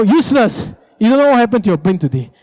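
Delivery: mildly hammed-up scolding; nagging insult. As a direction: berate a useless husband, half in play. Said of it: "you say this kind of thing".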